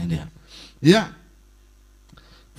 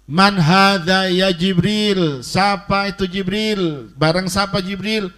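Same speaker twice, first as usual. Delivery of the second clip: slow questioning; 3 semitones higher, 3 dB louder, slower than usual. Retold or imitated. Voices Ibrahim questioning Jibril.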